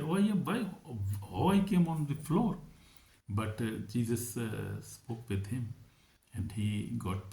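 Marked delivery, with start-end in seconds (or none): 0.0-2.6 amazed. Retold or imitated. Man wakes confused on floor.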